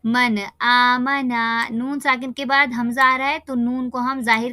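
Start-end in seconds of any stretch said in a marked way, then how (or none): 0.1-1.7 मन आमना slow, नून sounded before आमना; clear noon. Shown as a demonstration. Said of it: "जाहिर होगा". (मन आमना में नून ज़ाहिर)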